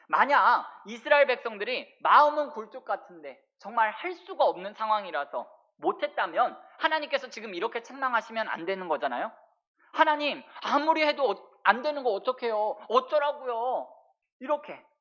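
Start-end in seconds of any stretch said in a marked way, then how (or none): 9.9-13.8 indignant delivery, pitched high. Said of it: "충분히 항변할 수 있는 거예요".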